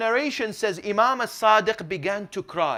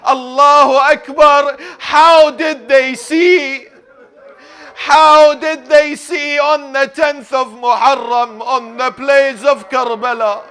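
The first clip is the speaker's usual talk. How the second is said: full-force lament preaching; 8 semitones higher, 12 dB louder than usual. A narrator's reading. Preacher asks mourners how angels could bear Karbala, lamenting loudly. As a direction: declaim each question to a grieving crowd.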